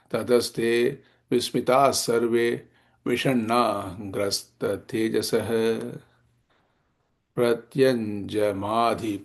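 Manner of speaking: slow, even-toned verse recital; Sanskrit shloka recitation. Acted. Teacher reading the verse on the devatas' despair, slow recitation. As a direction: recite in measured phrases, holding the final vowels.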